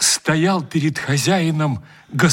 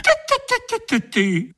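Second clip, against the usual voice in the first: higher, delighted exclamation; excited, pitched-up cry; rapturous cry; faster than usual. Acted. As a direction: guest bursting with glee at the caviar. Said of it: "восторженно закричал гость".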